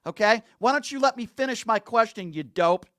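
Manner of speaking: loud, exasperated, cutting the caller off; furious radio host telling a caller to shut up; angry demand. Real, not acted. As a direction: shout him down so he lets you finish.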